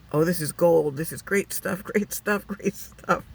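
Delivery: gleeful director. Retold or imitated. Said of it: "the director's going".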